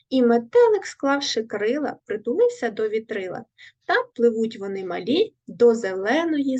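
lively storybook poem recital; poem reading. Acted. Teacher reading a poem to the class, lively recital. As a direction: read the rhyme brightly to young pupils.

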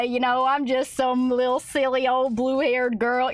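normal talking voice

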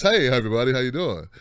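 a hint of a low, mellow greeter; lightly acted nice guy. Obama greeting everybody while seething inside, lightly acted niceness. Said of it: "he just looked nice".

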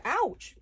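sharp yelp of pain; real ouch from a stubbed toe. Real, not acted. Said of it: "Stubbed my toe on my big board".

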